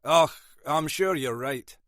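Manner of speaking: reassuring. Acted. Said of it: "said Munro reassuringly".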